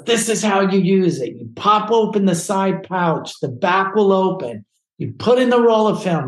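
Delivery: high, insistent mock-impatient orders; acted exasperated instructions. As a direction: rattle off steps like a fed-up friend. Acted exasperated friend giving orders.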